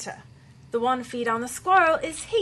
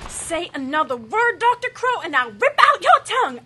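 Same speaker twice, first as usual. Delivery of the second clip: loud, higher threat; angry threat; 4 semitones higher, 7 dB louder than usual. Acted. Leader threatening the mouthy doctor, angry and loud. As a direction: threaten to rip his tongue out.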